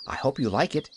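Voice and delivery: "I hope you like it" lifting gently at the end; rising inflection. A narrator's reading. Pollyanna offering "I hope you like it" with rising inflection. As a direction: let "like it" rise hopefully. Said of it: "There was a rising inflection in her voice".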